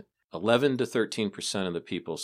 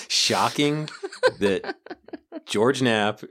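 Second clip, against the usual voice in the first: bursting out laughing mid-sentence; 5 semitones higher, 6 dB louder, slower than usual. Real, not acted. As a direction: laugh through the words. Laughing while talking, big jump.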